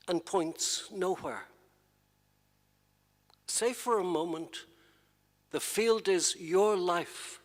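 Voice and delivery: measured poem recital with long pauses; poetry reading. Acted. Poet reading his poem to an audience, measured poetry reading. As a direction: read the lines unhurried, pausing at each break.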